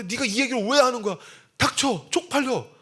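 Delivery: hiss-free shouting at yourself to shut up; inner scolding shout. Retold or imitated. Pastor's embarrassed inner voice yelling at himself.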